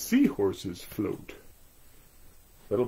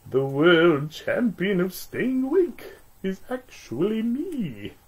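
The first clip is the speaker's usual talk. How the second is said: boastful toy voice; 8 semitones higher than usual. Acted.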